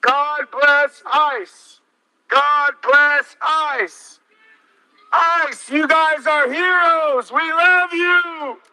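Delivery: frat bro. Acted. Mocking cheers through a megaphone.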